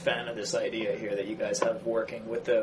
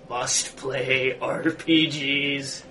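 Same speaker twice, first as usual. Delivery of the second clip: Neckbeard voice; much slower than usual. Acted. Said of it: "Do your best Neckbeard voice".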